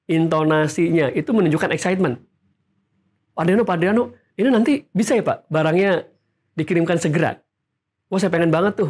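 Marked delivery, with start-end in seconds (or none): 3.3-8.9 eager buyer, pitch jumping up, lively; excited intonation. Shown as a demonstration. Eager customer asking the salesman, excited. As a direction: sound keen and impatient to buy. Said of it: "intonasinya kan beda dengan yang".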